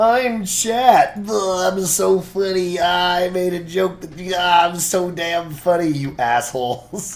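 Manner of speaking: slow, derisive, mocking send-up tone. Answering a request to do an impression of chat: impression of chat. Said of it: "Can you do an impression of chat?".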